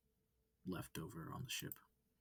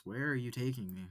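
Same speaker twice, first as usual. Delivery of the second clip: louder, rising alarm; loud alarmed questions; 4 semitones higher, 8 dB louder than usual. Acted. Kidnapped student demanding answers from the wolf, alarmed. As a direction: demand answers, getting upset.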